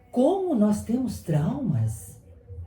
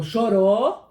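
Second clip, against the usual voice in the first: louder, rising incredulous question; mock reproachful questioning; 3 semitones higher, 4 dB louder than usual. Onlooker confronting someone who cried, mock reproach. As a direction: imitate someone challenging a person for crying.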